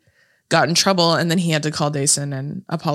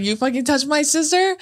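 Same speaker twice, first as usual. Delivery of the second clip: retold screaming; 8 semitones higher than usual. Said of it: "just started screaming".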